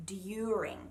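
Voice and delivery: "during" as d-yooring; "during" with a clean D-Y start; technical pronunciation. Shown as a demonstration. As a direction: keep a Y after the D in "during". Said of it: "really what we're saying is".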